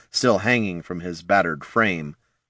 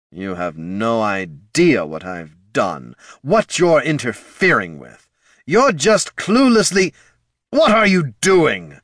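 ancient lich voice; 3 semitones higher, 4 dB louder than usual. Acted. Lich voice, rising to shriek.

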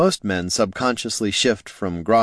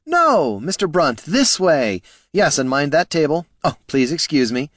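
high, raised voice calling over a din; pitched up, fussing over a crowd; 7 semitones higher, 3 dB louder than usual. A narrator's reading. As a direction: call out urgently to be heard over noise. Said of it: "Flynn's voice rose above the goat's din".

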